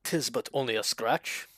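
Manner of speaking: lightly voiced movie knight, slow; a hint of a knight's voice, drawn out; Black Knight. Streamer quotes Monty Python on request, mild mock knight voice. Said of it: "We need the Black Knight voice".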